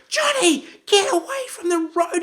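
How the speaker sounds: very high mock scream, a laugh breaking in; screaming dad. Dad screams at Johnny by the road, mock scream. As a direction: scream it in panic, half-laughing. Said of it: "He's now screaming at Johnny".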